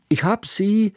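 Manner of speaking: put-on a child calling from the kitchen, high; girl calling from afar. A narrator's reading. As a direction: call out from another room. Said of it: "rief Hannaka noch aus der Küche".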